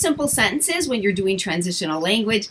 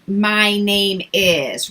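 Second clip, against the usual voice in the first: slow model phrase; much slower than usual. Shown as a demonstration. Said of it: "encourage them to say their".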